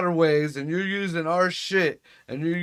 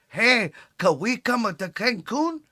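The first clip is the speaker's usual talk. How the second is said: bad mock Asian accent; 5 semitones higher than usual. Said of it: "It's not a good accent".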